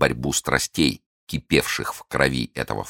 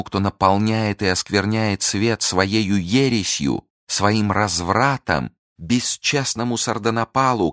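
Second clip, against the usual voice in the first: fervent denunciation; 4 semitones higher than usual. Acted. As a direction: preach against him with rising fire. Milady's fervent accusation builds.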